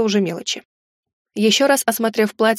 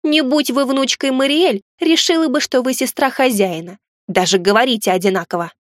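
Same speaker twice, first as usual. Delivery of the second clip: fairy spirit voice; 3 semitones higher than usual. Acted. Fairy spirit teasing heroine.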